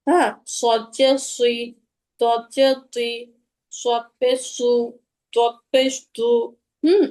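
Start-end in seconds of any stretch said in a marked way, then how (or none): 0.6-6.3 heavy, rounded সদ and তদ syllables; thick emphatic Arabic letters, drawn out; rounded lips. Shown as a demonstration. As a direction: round the lips on সুই, তুই, সু, তু. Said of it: "ঠোঁটটা গোল করে রাখবেন".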